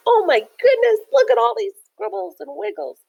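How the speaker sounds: wide-eyed astonishment; high voice full of wonder; amazed stone. Acted. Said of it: "look at his face, like".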